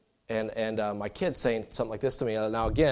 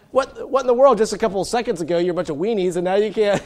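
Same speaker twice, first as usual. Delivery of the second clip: amused dad; 9 semitones higher, 10 dB louder than usual. Retold or imitated. Dad mocking brave kids.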